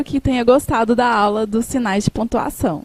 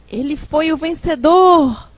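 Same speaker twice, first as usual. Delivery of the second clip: a louder, slow exclamation full of surprise; 3 semitones higher, 5 dB louder than usual. Shown as a demonstration. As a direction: announce the winner in amazement. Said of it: "A surpresa".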